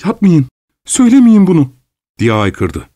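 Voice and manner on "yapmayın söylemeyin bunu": much higher, acted desperate outcry; frantic cry. A narrator's reading. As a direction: beg wildly for it not to be said. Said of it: "çılgın bir heyecanla, diye haykırdı". (çılgın bir heyecanla haykırarak)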